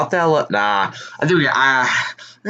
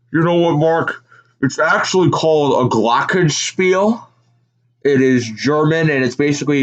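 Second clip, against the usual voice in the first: higher, lively announcer voice; Bill Walton impression; 3 semitones higher than usual. Retelling a broadcast booth bit, mock Walton voice. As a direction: ham it up like a goofy commentator.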